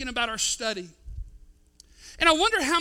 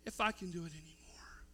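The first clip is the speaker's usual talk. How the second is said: much softer, lower, almost whispered; hushed inner voice; 6 semitones lower, 14 dB quieter than usual. Retold or imitated. Paul whispering to himself in his soul, hushed. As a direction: breathe it out like a private despair. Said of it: "And he whispered in his soul".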